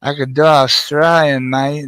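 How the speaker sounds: lightly done Australian accent; a hint of Australian accent. Shown as a demonstration. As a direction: toss in a bit of Australian. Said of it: "It's easy to do Australian".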